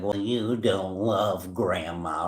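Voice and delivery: slow, low guilt-tripping jab; imitated passive aggression. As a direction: mimic a passive-aggressive relative, drawn out. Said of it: "I hear that person be like".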